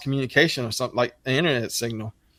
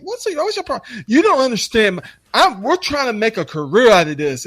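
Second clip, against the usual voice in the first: very high falsetto whine; mocking whiny kid; 9 semitones higher, 3 dB louder than usual. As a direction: whine it like a touchy young guy. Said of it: "I'm like".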